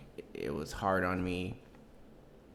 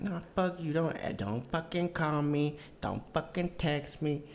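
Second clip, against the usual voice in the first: mock Latina telling him off, pitched up; imitated angry Latina ex; 6 semitones higher than usual. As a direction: draw out each warning in a raised mimicking voice. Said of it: "How they say it".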